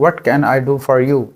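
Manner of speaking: drawn out slowly. Shown as a demonstration. Teacher repeats the question slowly. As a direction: say it slowly, word by word. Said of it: "मैं तुम्हारे लिए क्या कर सकता हूँ".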